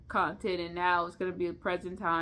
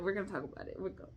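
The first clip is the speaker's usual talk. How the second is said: soft repeat muttered to herself; quiet; 10 dB quieter, much faster than usual. Real, not acted. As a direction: say it under your breath.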